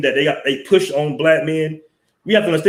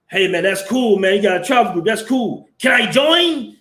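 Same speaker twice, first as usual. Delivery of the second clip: much higher, put-on voice of a hearty northern dude; Irish-sounding Canadian guy; 8 semitones higher than usual. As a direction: mimic the Canadian with an Irish lilt. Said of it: "And he's like".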